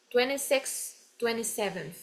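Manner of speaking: "twenty-six" and "twenty-seventh" each closed with a blown f; f-like TH ending. Shown as a demonstration. Teacher shows ordinal endings, f-like TH. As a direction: tack a puff of f onto both numbers. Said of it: "É só colocar um f".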